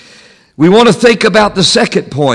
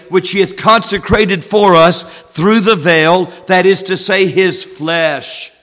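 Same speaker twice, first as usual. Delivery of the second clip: scripture reading with "blood" and "flesh" set apart and stressed; emphasis on key words. Shown as a demonstration. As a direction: lean on "blood" and "flesh" as you read the verse. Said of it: "I'm going to put some emphasis on two words".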